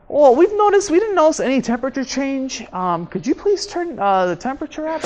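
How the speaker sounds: tentative polite request, starting high. Acted. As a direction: ask politely, softening as you go. Acts out polite request at desk.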